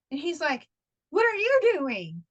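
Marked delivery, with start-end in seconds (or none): 1.1-2.2 slower, higher retort throwing it back; imitated husband. Husband turning question on wife, slow mocking retort. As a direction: mimic husband, drawn out and pitched up.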